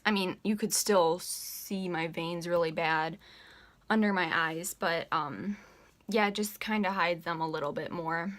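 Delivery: breathless talking; out of breath. Real, not acted. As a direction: speak short of breath. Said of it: "Sorry I'm so out of breath".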